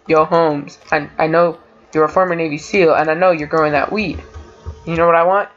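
lightly voiced drug dealer; drug dealer imitation. Gamer retelling a funny character line, lightly imitated dealer. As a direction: mimic a dealer asking for weed. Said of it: "he sounded like a total drug dealer guy".

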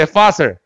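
fossil with an F, never a P; F sound demo. Shown as a demonstration. Teacher tells students to follow closely, fossil with F sound. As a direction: say "fossil" as a repeat-after-me model with F. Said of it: "F 사운드야".

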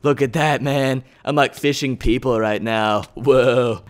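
low, dazed dude voice; lightly put-on spaced-out wonder; mock stoner awe. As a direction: play it blissfully tripped out. Mock stoner awe under water.

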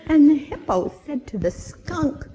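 ordinary delivery

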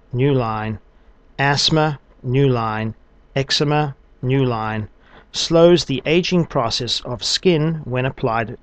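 measured phrases, spoken punctuation, long pauses; slow dictation with punctuation. Shown as a demonstration. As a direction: dictate clearly to speech software. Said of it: "So the command is, "Wake up".

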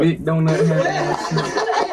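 stifled giggles. Real, not acted. Laughing at a fail video.

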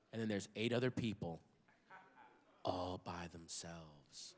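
ordinary talk, nothing marked

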